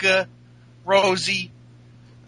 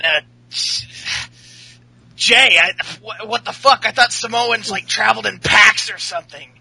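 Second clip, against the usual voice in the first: lightly put-on cocky wrestler voice, higher; Seth Rollins; 4 semitones higher than usual. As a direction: imitate a taunting wrestler, a touch higher. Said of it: "let me do the voice".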